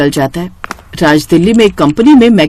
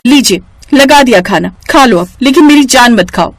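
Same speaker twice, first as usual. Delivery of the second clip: irritated; 5 semitones higher than usual. Acted. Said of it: "झुंझलाहट में".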